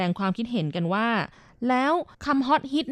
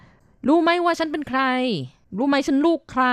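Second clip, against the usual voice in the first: higher and slow, throwing weight around; bossy bragging; 6 semitones higher than usual. Retold or imitated. Imitating Thai people showing off their power, in a slow bossy brag. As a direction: lord it over them like a big shot. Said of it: "เวลาที่ต้องการเบ่ง ต้องการใช้อำนาจ".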